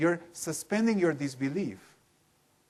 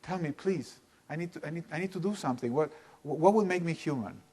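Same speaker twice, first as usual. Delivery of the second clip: put-on desperate child; 4 semitones higher, faster than usual. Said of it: "And they're desperate".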